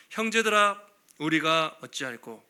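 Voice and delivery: slow, heavy cry of a guilt-stricken crowd; a people cut to the heart asking what to do; anguished lament. Acted. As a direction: plead with slow dragging despair. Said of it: "엄청난 탄식".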